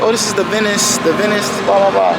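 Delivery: high, breezy lady voice; mock bubbly woman naming her drink; rooftop lady. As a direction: chirp it up high like a chatty lady at a bar.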